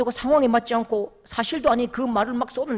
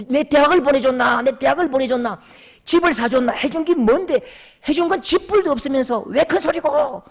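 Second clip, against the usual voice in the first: louder, higher angry rant; defiant shouting; 5 semitones higher, 4 dB louder than usual. Retold or imitated. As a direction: throw each accusation at the father. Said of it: "벌떡 일어서더니".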